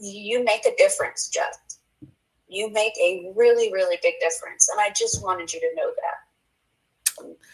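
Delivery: tearful, choked-up voice, on the verge of tears. Telling another speaker they make a big difference: tearing up. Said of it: "I'm sorry, I'm tearing up".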